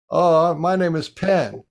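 slow, drawn-out toy voice; a pen toy introducing itself slowly in a play voice. Shown as a demonstration. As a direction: give the pen a slow little voice. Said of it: "pen is talking in pen voice".

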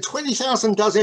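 high-pitched, mildly astonished query; incredulous. Acted. Printer questioning a trader's huge order, incredulous. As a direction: echo the order in disbelief.

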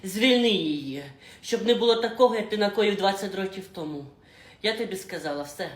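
loud, accusing confrontation; heated quarrel. Acted. Mother threatens the boss over her daughter, loud. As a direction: threaten him to his face.

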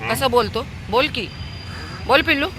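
high-pitched pet talk; lifted, playful voice to a dog; coaxing a pet. Real, not acted. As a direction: coax the puppy to answer.

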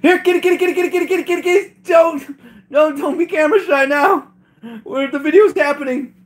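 high falsetto pet talk; high-pitched, cutesy cat call; coaxing the cats. Real, not acted. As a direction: coax shy kitties in a high voice. Coaxing camera-shy cats to come.

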